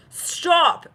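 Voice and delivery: high, loud "stop!"; loud high outburst; sharp cry to stop. Acted. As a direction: cut them off with a high yelp. Channeled quote, hostile moment in public.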